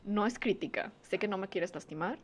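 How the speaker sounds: soft, careful approach to a partner; quietly voiced example of calm talk; gentle confiding. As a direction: open up without blaming. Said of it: "llegas con tu pareja y le dices como".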